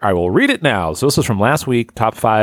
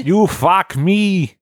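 much higher, very slow Russian falsetto; mock Russian woman; 9 semitones higher, much slower than usual. Answering the joke, in a high slow mock Russian accent. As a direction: stretch it out in a silly high Russian voice. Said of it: "hard to do a female Russian accent".

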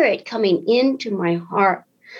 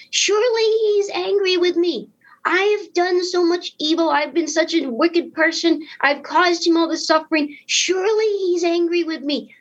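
fearful inner thoughts; 7 semitones higher than usual. Retold or imitated. Voicing his fearful thoughts.

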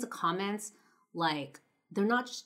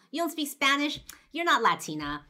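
higher, louder mock-incredulous retelling; mocking laughter; 9 semitones higher, 6 dB louder than usual. Friend's mom scoffs at her guest, imitated mocking laughter. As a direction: imitate a woman laughing off the answer. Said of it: "And she laughs. She goes".

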